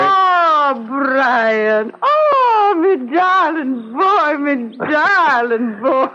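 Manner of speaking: slow, tender, near tears; tearful tenderness. Acted. Aunt welcoming her lost nephew, slow tearful tenderness. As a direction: hold him close with your voice.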